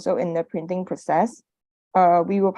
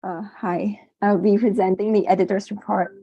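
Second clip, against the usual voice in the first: hoarse voice after covid; rough, strained hoarse voice; raspy whisper. Real, not acted. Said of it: "excuse my voice, I'm still recovering from covid".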